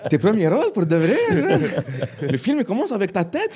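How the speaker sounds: high, loud, laughing incredulous father; mock-stunned dad laughing at his son's big news; laughing disbelief. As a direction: squeal it through laughter in disbelief.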